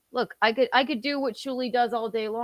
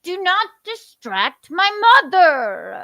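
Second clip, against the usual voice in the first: put-on baby talk; 8 semitones higher, 7 dB louder, slower than usual. Slow high baby talk.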